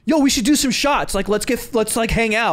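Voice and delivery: high-pitched overeager pal impression; overly friendly. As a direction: imitate someone pushing to be your buddy. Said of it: "He was overly like".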